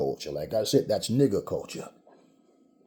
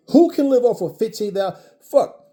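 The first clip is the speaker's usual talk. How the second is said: higher, louder frustrated outcry; exasperated outburst; 9 semitones higher, 7 dB louder than usual. Real, not acted. Ranting to viewers about loan limits, loud exasperation. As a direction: vent it, loud and high.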